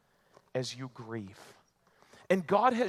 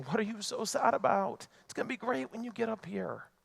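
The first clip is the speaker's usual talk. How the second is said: high-pitched, breezy imagined reveler; mock party cheer; 5 semitones higher, 4 dB quieter than usual. Imagined Jesus calling down from a heavenly party, mock cheer. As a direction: play blithely cheerful, pitched well up. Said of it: "partying it up".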